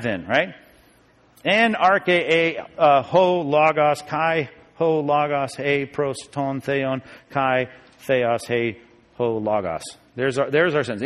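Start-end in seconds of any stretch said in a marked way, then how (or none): 1.4-9.8 slow, deliberate syllable-by-syllable reading; Greek recitation. Shown as a demonstration. Teacher reading out our sentence, slow Greek recitation. Reads Greek verse aloud.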